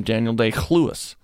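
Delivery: Day-Lewis said with a guttural "kh" before Lewis; mock pronunciation, "kh" opening Lewis; throaty Lewis. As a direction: put a throaty scrape at the start of Lewis. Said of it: "Are you Jewish".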